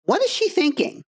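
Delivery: put-on mild little girl voice, pitch climbing on the last question; little girl version. Shown as a demonstration. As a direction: ask it lightly like an insecure little girl. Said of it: "giving you the little girl version".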